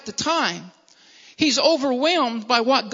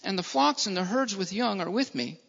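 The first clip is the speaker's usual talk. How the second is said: softer, lower scripture reading; soft, humble plea; 3 semitones lower, 5 dB quieter than usual. Acted. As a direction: read gently as a deferential servant. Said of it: "And Jacob said unto him".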